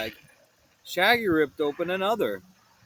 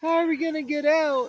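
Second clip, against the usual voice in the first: fearful; 11 semitones higher than usual. Acted. Hiding scared under table.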